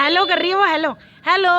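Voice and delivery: cooing hello to the dog; excited pet talk. Real, not acted. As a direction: greet the animals in a sing-song. Talking to dog and monkey.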